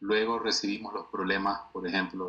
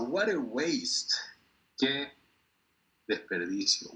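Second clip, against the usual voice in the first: lament; 5 semitones higher, slower than usual. Shown as a demonstration. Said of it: "Lamentablemente desperdiciamos mucho".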